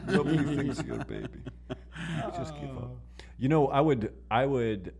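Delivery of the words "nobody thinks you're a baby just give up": a hint of Khabib accent broken by laughter; laughing Khabib accent. Friend repeating the joke line, laughing in a light accent. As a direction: giggle through a light mock Khabib accent. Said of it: "whispering in his ear".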